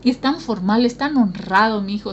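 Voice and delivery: proud praise. Retold or imitated. A parent boasts fondly about an honest son.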